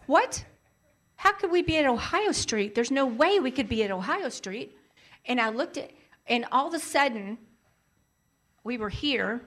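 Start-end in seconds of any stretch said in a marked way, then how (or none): 0.1-4.8 shocked disbelief. Retold or imitated. Stunned to find herself suddenly at Ohio Street. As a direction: cry out in disbelief.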